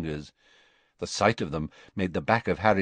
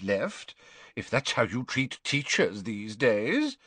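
put-on indignant old wizard; 6 semitones higher than usual. A narrator's reading. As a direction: cut him off, irritated. Slughorn voiced.

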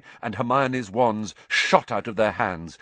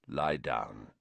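low, much softer quiet order; said quietly; 12 semitones lower, 8 dB quieter than usual. A narrator's reading. Black to injured Ron, low quiet order. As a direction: hush it down to him, low and gentle. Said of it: "he said quietly".

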